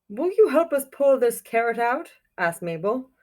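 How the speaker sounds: put-on reading a picture book aloud to children; storybook reading. A narrator's reading. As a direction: tell it like storytime for kids.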